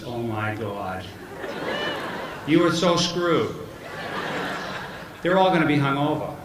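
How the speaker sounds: put-on teasing son in a Boston accent. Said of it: "what's with the Boston accent?".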